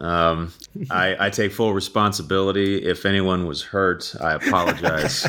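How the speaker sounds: mock-solemn public apology; hammed-up press statement sorry; fake apology. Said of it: "mock public apology after being blamed".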